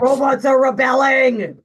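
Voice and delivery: slow loud dramatic shout; mock shout. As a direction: proclaim it like a doomsday. Joking about failed speakers.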